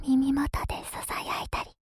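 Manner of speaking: demonstrating an ear whisper. Shown as a demonstration.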